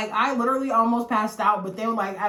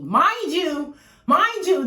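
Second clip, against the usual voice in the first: emphatic aside; 7 semitones higher, 7 dB louder, much slower than usual. Real, not acted. Stressing a point to listeners.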